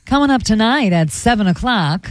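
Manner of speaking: formal newscaster tease; news anchor voice. Shown as a demonstration. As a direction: read it like a TV anchor. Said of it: "the news anchor voice".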